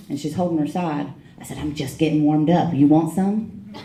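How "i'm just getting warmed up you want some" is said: drawn-out, mocking challenge, with a laugh; cocky taunt. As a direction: slowly goad her into another round. Taunting after a fight.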